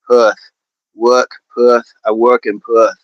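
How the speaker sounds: practising an Australian accent on "work" and "Perth"; Aussie "Perth", r dropped; careful attempt at an Australian accent. Shown as a demonstration. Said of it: "get more into that accent".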